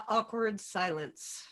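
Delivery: ordinary talk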